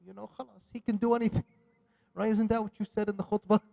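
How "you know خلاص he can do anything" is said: naive believer. Retold or imitated. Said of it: "He's like".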